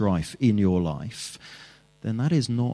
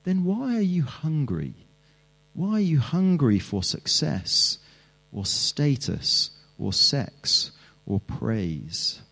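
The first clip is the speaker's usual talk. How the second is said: higher, sly tempter's taunt; a mocking devil's taunt, pitched higher; Satan tempting; 4 semitones higher than usual. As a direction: needle them like the devil would. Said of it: "And Satan will say to us".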